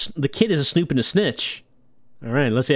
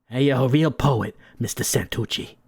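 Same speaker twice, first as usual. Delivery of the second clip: lightly voiced henchman; 3 semitones lower than usual. Henchman answering his boss, low and obedient. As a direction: mutter it like an obedient goon.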